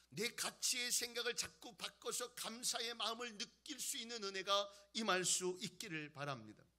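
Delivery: emphatic pulpit proclamation; forceful preaching. Real, not acted. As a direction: press each point home to the congregation.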